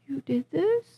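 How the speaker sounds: high, whispery awed voice; proud fan. Retold or imitated. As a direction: imitate an overwhelmed, proud admirer. Voices fan greeting her tearfully.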